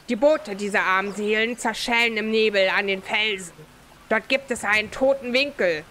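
lightly voiced harbour character; game character voice. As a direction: tell it as a grim local.

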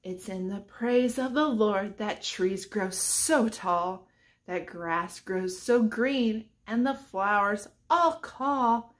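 sing-song picture book reading; reading to children. Acted. Teacher reads a rhyming book to children, sing-song. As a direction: read the rhyme aloud to the kids.

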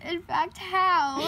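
lightly mimicked puzzled friend; imitating friend. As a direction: echo her words in her manner. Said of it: "She went".

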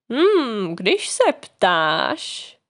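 low, drawn-out musing; thoughtful. A narrator's reading. Cricket considers Pinocchio's request for gift advice, thoughtful. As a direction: take your time thinking it over, low. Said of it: "zamyslel se Jiminy".

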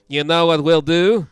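put-on slow Dutch accent; lightly accented Dutch speaker. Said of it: "mad at both of your Dutch accents".

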